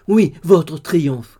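loud, slow, drawn-out insistence; heartfelt cry. A narrator's reading. Dolly cries back to Joe about his triumph, wholeheartedly. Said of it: "criait-elle, toujours de tout son cœur".

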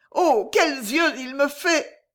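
slow, high frightened madwoman; mad girl. Acted. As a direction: say it like a madwoman, slowly. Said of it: "dit la pauvre folle".

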